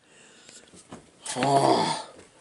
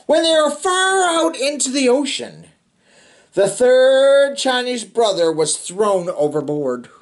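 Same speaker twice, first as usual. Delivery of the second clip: put-on steady read-aloud narration for kids; storybook reading. A narrator's reading. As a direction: read it like a bedtime picture book. Reading picture book to children.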